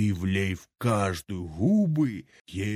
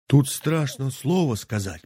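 squeaking beak; 5 semitones higher than usual. Acted. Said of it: "пискнул птичий нос".

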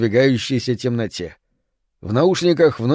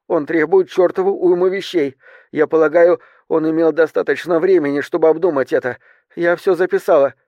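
higher-pitched, lightly voiced stewardess; narrator's higher voice for a flight attendant; stewardess reporting demands; 3 semitones higher than usual. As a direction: relay the threats in a raised, careful voice.

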